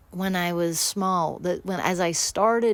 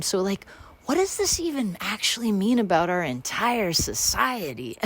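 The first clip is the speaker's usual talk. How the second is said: mock philosophical; 4 semitones higher than usual. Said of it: "I start waxing philosophical".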